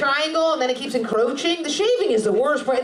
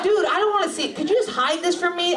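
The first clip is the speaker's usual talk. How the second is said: higher-pitched mock plea to a boyfriend; mock pleading; 5 semitones higher than usual. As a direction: beg him in put-on dismay. Acted plea to gamer boyfriend.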